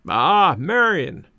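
a slow, fond, drawn-out call to Marion; fond slow cry. A narrator's reading. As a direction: greet her gladly, slowly stretching the words. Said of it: "cried my grandfather".

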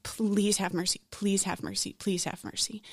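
repeated plea, softening to near quiet; a hint of desperate pleading that dies down; begging, fading. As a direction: beg for mercy, letting each repeat fall away. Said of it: "begging God".

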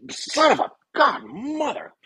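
high, yelled cursing; angry cussing. Retold or imitated. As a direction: swear at the top of your voice.

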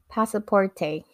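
lightly imitated American accent on Spanish. Agent asking for a passport in Spanish, American accent. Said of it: "in her American accent".

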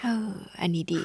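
breathy whispered approval; whispered aside. Real, not acted. Quiet aside to host. (กระซิบชื่นชมเบาๆ)

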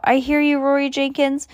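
high, scolding call; mild yell. A narrator's reading. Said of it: "she yelled".

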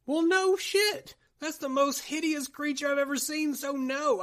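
high, exasperated comic rant; incredulous mock indignation at the obvious; sarcastic outrage. Sarcastic answer to obvious line.

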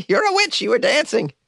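very high, squeaky mock accusation; shrieky witch hunter, played for laughs; old-time witch accuser. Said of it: "from the seventeen hundreds or something".

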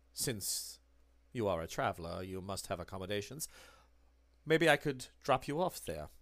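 low, soft, menacing bookseller; Herr Müller. Acted. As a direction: press her quietly, with veiled threat. Müller pressing Miss Dawson.

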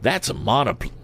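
high-pitched voice for the wrong figure; wrong character voice. A narrator's reading. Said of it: "wrong voice".

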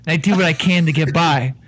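blustering Irish con man; Irish accent. Acted. Con man insisting to the bartender, in an Irish accent. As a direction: lay on the Irish brogue, talking him down.

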